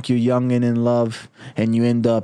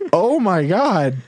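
awed gasp; 7 semitones higher, 3 dB louder, slower than usual. Acted. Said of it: "And James is like".

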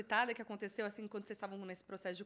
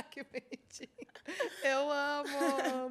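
adoring coo; 3 semitones higher, slower than usual. Real, not acted. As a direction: coo over it as if it were adorable. Gushing after hearing the demo.

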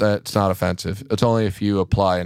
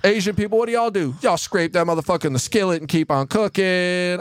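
comic voice; 7 semitones higher than usual. Retold or imitated. Retold comic bit, high voice.

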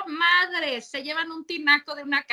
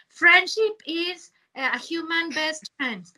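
mock English caption; slower than usual. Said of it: "la foto dice".

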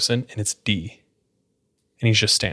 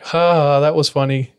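higher mock laugh it off; imitating amused relief, pitched up; retold amusement; 4 semitones higher, 3 dB louder, slower than usual. Cousins reacting to D's prank claim, retold amusement.

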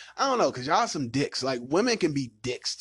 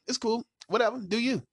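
high-pitched mock brush-off; mock dismissal; 10 semitones higher than usual. Man brushing off an arguing woman, mock dismissive. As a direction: toss it off in a raised voice.

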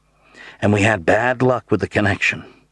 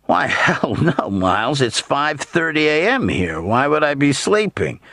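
high-pitched, amused denial; cheerful protest; 7 semitones higher than usual. A narrator's reading. Ben, asked if he was woken: cheerful, high-pitched protest. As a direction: laugh off the idea cheerfully. Ben's cheery reply on the phone.

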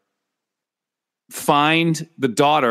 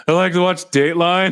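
Kate McKinnon impression; 5 semitones higher than usual. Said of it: "And Kate McKinnon's like".

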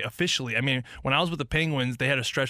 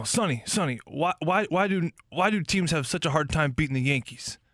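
put-on Italian accent; 2 semitones higher than usual. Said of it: "that's my Italian".

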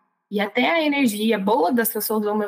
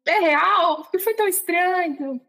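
high-pitched disbelieving questions; reliving baffled amazement, pitched up; incredulous questioning; 8 semitones higher, slower than usual. Retold or imitated. Woman asking Ju next morning whether it happened, incredulous.

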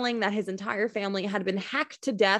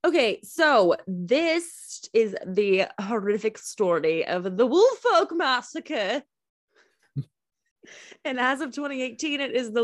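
spooky storyteller voice; 3 semitones higher than usual. Acted. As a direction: draw it out like a campfire ghost story. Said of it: "I will hang up this call if you talk like that".

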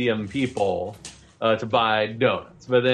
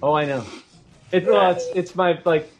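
Peta the baker; 4 semitones higher than usual. Acted. GM voices Peta talking to customer.

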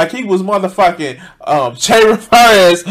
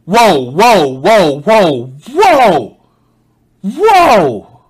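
whoa; much slower than usual. Real, not acted. Reacting to guest's claim.

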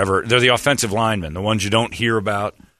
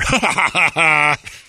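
high mock cackling laugh; loud retold guffaw; imitated officer's laughter; 8 semitones higher, 4 dB louder than usual. Officer laughing after the scare, imitated high laughter. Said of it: "then you just hear".

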